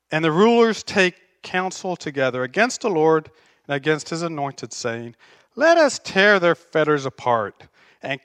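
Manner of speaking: measured Bible reading to the church; scripture reading. Acted. Pastor reading Psalm two to the congregation, measured and solemn. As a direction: read the psalm with weight.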